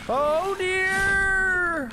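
high, loud startled yelp; a sudden fright, pitched high; startled cry. Real, not acted. Startled by boss attack.

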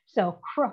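cr said as two blended sounds, k then r, with no vowel; sounding out cr. Shown as a demonstration. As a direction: isolate the cluster cr. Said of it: "that combination of two phonemes".

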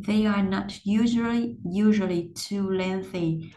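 careful learner phrasing, piece by piece; broken into chunks. Shown as a demonstration. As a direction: read in practice chunks, repeating "usually". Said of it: "Rồi, mình cắt nè".

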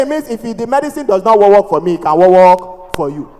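light stutter on the key word; stammered retort slowing at the end; mock stammer. Passenger answering the seller, lightly stammered. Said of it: "family members that stammer".

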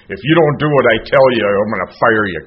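half-serious imitation of an aggressive old-timer; mock aggressive boss. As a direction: play the pushy sponsor barking orders. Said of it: "this aggressive".

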